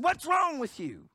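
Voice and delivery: high, slow, reproachful sister's cry; Martha's reproach. Acted. Mary and Martha reproaching Jesus, high and slow. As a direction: scold the friend who came too late. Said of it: "Mary and Martha said".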